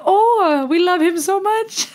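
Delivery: high, gushing fan voice; mock adoring fan. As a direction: coo like a smitten fan. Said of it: "And we're all like".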